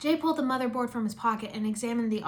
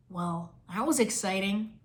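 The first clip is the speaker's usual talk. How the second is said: sarcastic; 3 semitones lower, slower than usual. Acted. Sarcastic after nothing happens.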